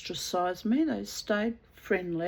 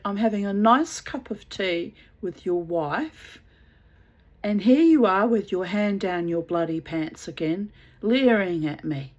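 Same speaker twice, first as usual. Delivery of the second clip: louder scolding, building indignation; telling off; 7 dB louder than usual. Retold or imitated. Scolding the husband at the tea table, a loud angry telling-off. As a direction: put him in his place.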